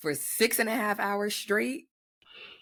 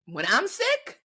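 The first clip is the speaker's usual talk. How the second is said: indignant; 2 semitones higher than usual. Real, not acted. Indignant complaint.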